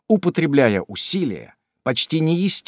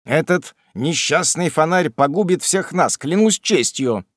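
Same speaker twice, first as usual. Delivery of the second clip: slowed, annoyed grumble; angry tone; 5 semitones higher than usual. Acted. Sam vexed at his master's lantern, angry tone. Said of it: "сказал Самуэль сердитым тоном".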